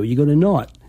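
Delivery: "not" with a long rounded aw vowel; elongated Boston not. Shown as a demonstration. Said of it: "It's almost elongated".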